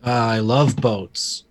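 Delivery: a light goofy dad voice, slow; a hint of a cartoon dad who loves boats; Milhouse's dad voice. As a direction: drawl it out like a simple cartoon dad. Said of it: "talking like Milhouse's dad".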